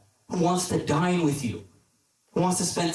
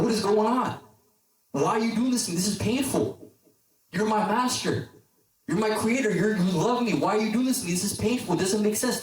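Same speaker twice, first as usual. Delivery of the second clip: higher-pitched, distressed protest, not truly screamed; mock screaming; 4 semitones higher than usual. Clay protesting to his master as he is molded, mock screaming. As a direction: act out a mild version of a scream of protest. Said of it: "the clay starts screaming".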